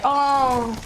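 slow, laughing mock complaint; mock hurt voice, slow and laughing; mock whiny quote. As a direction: drag it out mockingly. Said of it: "make me say".

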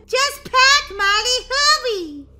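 high, loud hurried command; urgent shout. Acted. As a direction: push her to hurry up, half laughing. Urging sister to hurry.

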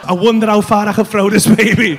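low, fuller-voiced pondering; musing intrusive thought. New dad's thought growing bolder, brazen musing. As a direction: speak the dark thought out openly.

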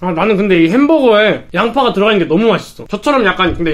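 words muffled by food; talking while chewing. Real, not acted. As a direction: mouth partly full of food. Seen 3: Cheeks bulge, burger in hand, mouth working after bites.

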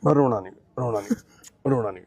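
low, soft hushing; gentle comforting. Real, not acted. Comforting the patient not to cry, gently. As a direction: soothe him out of crying. Comforting someone who is crying.

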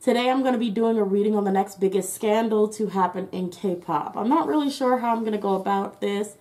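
talking through a face mask; muffled, mask over mouth. Real, not acted. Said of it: "I have a mask on, that's why I sound muffled".

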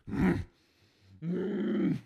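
high-pitched acted hum; wordless hum. Imitating Katie as she walks, high wordless hum. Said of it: "she just see her walking and she goes".

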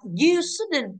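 "you shouldn't" drawn out very slowly; slow dictation. Shown as a demonstration. Teacher reading the exercise prompt to students, slowly. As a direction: stretch the words out for the class. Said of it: "teacher reading the sentence aloud".

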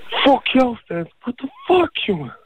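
to the friend who slept with his sister, a real furious outburst. Real, not acted. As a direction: let the fury explode.

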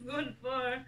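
chewing while talking; speaking between bites; mouth full of popcorn. Real, not acted.

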